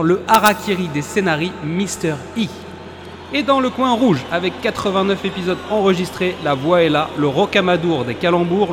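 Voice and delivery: high, booming fight night intro; boxing ring announcer. Acted. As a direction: hype up each corner of the ring. Introduces the hosts like boxers.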